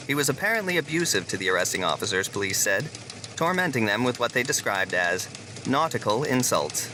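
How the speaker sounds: crisp evening news delivery; news anchor read. Acted. Anchor reporting the toilet incident, news read. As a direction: read it like the nightly bulletin.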